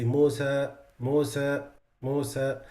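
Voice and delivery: Musa with a clipped, weak alif; wrong Musa. Shown as a demonstration. Teacher demonstrating a wrong Musa to students. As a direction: say Musa without the full open alif. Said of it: "the sound is missing something".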